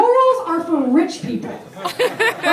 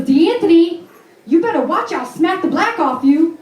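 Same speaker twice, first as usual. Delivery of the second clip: mock scolding yell, slightly raised; imitated yelling mother; 3 semitones higher, 3 dB louder than usual. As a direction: imitate a mother yelling a threat at her son. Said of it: "like, yelling at her son".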